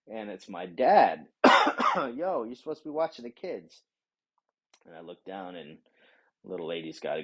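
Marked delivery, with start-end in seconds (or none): 2.0-3.8 dad's voice. Retold or imitated. Dad scolding in retold story.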